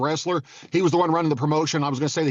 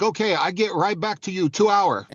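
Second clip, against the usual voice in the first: mock Asian accent; 3 semitones higher, slower than usual. Imitating Bob Sapp's assistants' texts in a slow mock Asian accent. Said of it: "their texts are in an Asian accent".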